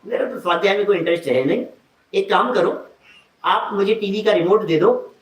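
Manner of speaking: mock honeyed politeness, quick; sweetly polite. Guest sweetly shoos host off to the sermon. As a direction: coax him off to class sweetly. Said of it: "बहुत प्यार से बोल रहा है".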